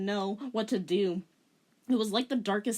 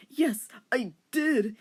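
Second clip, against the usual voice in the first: bold; 4 semitones higher, slower than usual. Acted. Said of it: "he said boldly".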